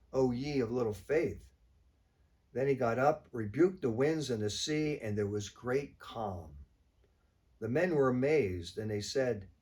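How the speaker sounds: measured, emphatic Gospel reading with deliberate pauses; solemn reading aloud, key words leaned on; scripture reading. Acted. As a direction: read the passage out to the congregation, phrase by phrase. Reads the Gospel passage aloud.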